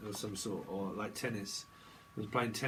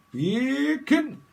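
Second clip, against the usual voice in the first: high, loud squeal of kin; playing with the word kin; mock excited; 11 semitones higher, 8 dB louder than usual. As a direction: yelp it up in glee. Playful Scottish-style kin quote.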